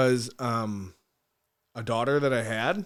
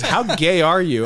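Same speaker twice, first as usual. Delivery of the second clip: slow, louder, laughing through it; barely holding the laugh in; amused mock question; laughing quote; 5 semitones higher, 9 dB louder, slower than usual. Quoting producer, laughing.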